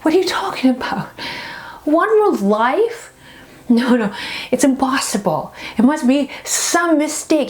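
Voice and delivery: in shock. Acted. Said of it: "the man is just in shock".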